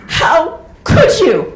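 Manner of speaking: loud, slow, anguished mother's cry; tearful mother. Retold or imitated. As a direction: play the wounded, crying mother. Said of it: "she's crying. She goes".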